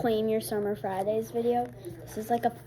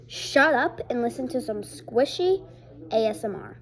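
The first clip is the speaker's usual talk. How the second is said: a light, punchy catchphrase read; mildly hyped intro line; 4 dB louder than usual. Pretend. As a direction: announce the trend line on a countdown. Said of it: "Okay, ready? Three, two, one".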